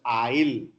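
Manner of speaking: "il." said as a flat il, no glide; the Telugu-speaker swap for oil, "il."; substituted il. Shown as a demonstration. Teacher demos the Telugu swap, "il." for oil. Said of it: "We substitute use".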